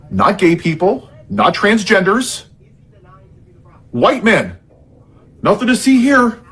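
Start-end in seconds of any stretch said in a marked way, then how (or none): 5.4-6.4 sarcastic dismissal. Pretend. Sarcastic cover-up phrase.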